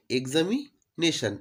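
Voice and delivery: "এক্সামিনেশন" split as exami, then nation; broken into syllables. Shown as a demonstration. Teacher breaking the word up for easy spelling, "এক্সামিনেশন" split in chunks. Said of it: "ভেঙে দিলাম".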